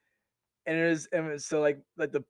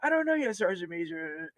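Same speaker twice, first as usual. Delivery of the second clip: mock shy soldier; timid soldier; 5 dB quieter than usual. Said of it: "he's like".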